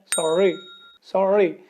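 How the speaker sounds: सॉरी with the double r clearly sounded; proper pronunciation. Shown as a demonstration. Teacher models the correct सॉरी, double r sounded. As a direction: say सॉरी as it is written. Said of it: "ये proper तरीका क्या है?".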